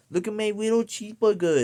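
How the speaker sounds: put-on high baby voice, wittle cheeseburger; mocking an adult woman's baby talk; mock cutesy baby talk. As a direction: squeal it like a toddler with a toy. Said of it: "she's like".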